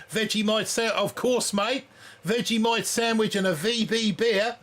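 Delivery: a hint of Australian twang while joking about next season's costume; Australian accent. Shown as a demonstration. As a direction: ham up a friendly Aussie bloke, lightly. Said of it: "we'll have the voice down".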